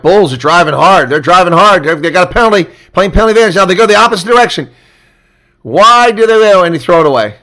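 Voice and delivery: loud and high, climbing to a shout; excited play-by-play. Real, not acted. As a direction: call the drive like you're on your feet. Play-by-play of a driving scrum.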